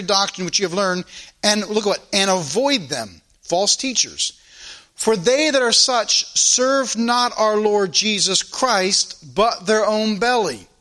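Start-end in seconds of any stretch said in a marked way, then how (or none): 4.9-10.7 measured, slow reading of the verse; slow scripture reading. Acted. Preacher reading Romans to his congregation, slow and solemn. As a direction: read scripture slowly to the church.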